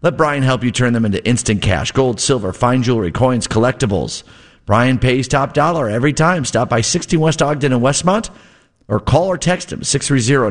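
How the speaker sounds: bright live radio ad read. Acted. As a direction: pitch it to the listeners. Host reads a live ad.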